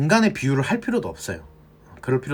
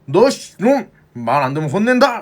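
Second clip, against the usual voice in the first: stern scolding; 4 semitones higher, 5 dB louder than usual. Retold or imitated. Adult scolding the child.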